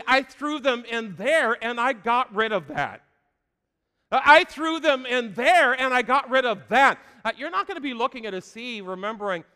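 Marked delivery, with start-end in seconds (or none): 4.1-4.2 voicing God. Preacher voicing God's words. 4.2-7.0 louder repeat. Shown as a demonstration. Preacher repeating God's words higher and louder. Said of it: "repeated louder and higher".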